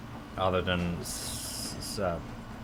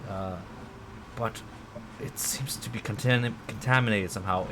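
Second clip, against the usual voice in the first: tiny pixie voice; 3 semitones higher than usual. Acted. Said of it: "you hear a tiny voice on your shoulder whisper".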